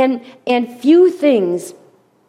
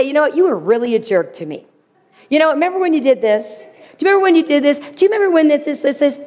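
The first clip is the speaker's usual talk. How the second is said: accusing rant; 4 semitones higher, faster than usual. Pretend. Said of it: "that would be a personal attack".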